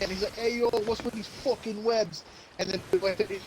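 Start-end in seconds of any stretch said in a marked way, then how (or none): 0.4-2.2 slow, hammed-up Boston tough guy; lightly done Boston accent, slowed down; mock Boston accent. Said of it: "he's got a Boston accent".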